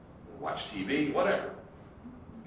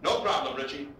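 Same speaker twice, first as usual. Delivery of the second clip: shouting back; 4 semitones higher, 4 dB louder than usual. Retold or imitated. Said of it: "Chacon shouts after him".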